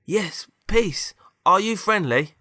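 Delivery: high-pitched put-on hero voice; story hero. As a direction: ask it high, as the character. Hero questions robot, acted.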